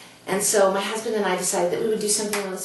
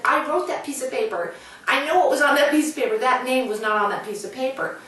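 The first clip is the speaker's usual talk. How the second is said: raised, fast, insistent retelling; upset insisting; 6 semitones higher, faster than usual. Retold or imitated. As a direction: press the point, getting worked up, then ease off. Retold upset argument with baker.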